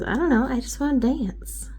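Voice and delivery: put-on light little-girl voice; lightly voiced six-year-old; child voice. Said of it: "she just goes".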